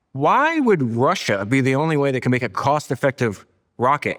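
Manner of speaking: retold as a disbelieving challenge; incredulous quote. Host quotes Elon questioning Russian rockets, incredulous. Quoting Elon's incredulous pitch.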